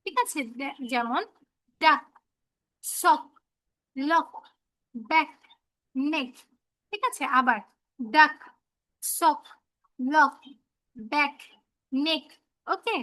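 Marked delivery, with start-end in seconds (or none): 1.8-6.3 "ডাক, সক, লক, ব্যাক, নেক" ending in a "ক" sound; one word at a time, showing final "ক"; teacher drilling CK words with pauses; CK sound demo. Shown as a demonstration. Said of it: "ক এর মতো". 8.0-12.2 "ডাক, সক, লক, ব্যাক, নেক", each closed on "ক"; CK sound demo. Shown as a demonstration. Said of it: "ক এর মতো".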